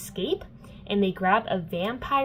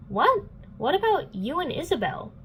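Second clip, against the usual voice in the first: high, incredulous comeback; indignant retort; 8 semitones higher than usual. Retold or imitated. Clary arguing back at Simon, indignant retort. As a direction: imitate an affronted girl firing back.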